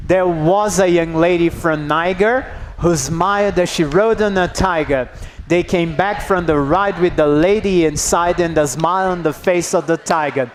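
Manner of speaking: reading the limerick with its bouncing rhythm; limerick read aloud. Shown as a demonstration. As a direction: read it out like a poem for the class. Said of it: "everybody together".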